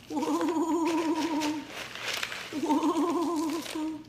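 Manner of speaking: high wavering ghost hoot; spooky woo-hoo. Pretend. Spooky hooting.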